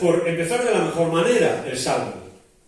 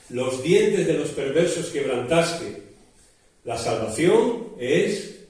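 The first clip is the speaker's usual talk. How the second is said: solemn scripture reading. Acted. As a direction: read the psalm like a prayer, letting the end fade. Reads psalm aloud before preaching.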